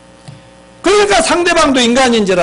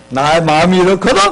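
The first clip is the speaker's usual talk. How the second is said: lower, measured sharing of feelings; I-message; 4 semitones lower than usual. Shown as a demonstration. Preacher models the I-message for congregation, non-blaming. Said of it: "이렇게 하십시오".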